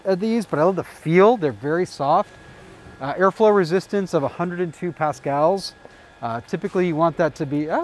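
muffled by cloth mask; speaking behind fabric covering; through a face mask. Real, not acted. Seen 1: Camo fabric mask over nose and mouth throughout; removed by 19.5.

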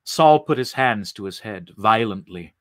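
plain reading voice

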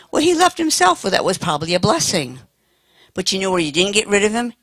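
normal talking voice

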